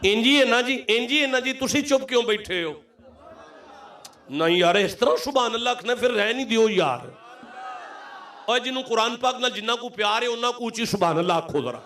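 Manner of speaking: high-pitched appeal to the congregation; rousing preacher. Real, not acted. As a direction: rouse the crowd to answer back.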